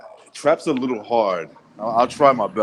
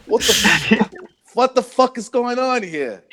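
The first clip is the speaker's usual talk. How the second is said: much higher, slowed, hammed-up rage; mock outburst; 10 semitones higher, slower than usual. Imitating Stu losing his mind on the stream, mock fury. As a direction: rage at background noise, overdone. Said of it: "when Stu lost his mind".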